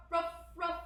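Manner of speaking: ruff, ruff as a pretend dog bark; lightly mimicked puppy barks; playful barking. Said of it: "downward dog says ruff".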